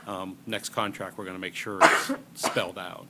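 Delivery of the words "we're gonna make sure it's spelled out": dry cough. Real, not acted. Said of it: "I have a tickle in my throat".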